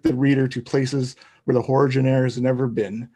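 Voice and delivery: lightly put-on radio announcer pitch. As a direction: read it like an amateur radio promo, a touch projected. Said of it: "my radio voice".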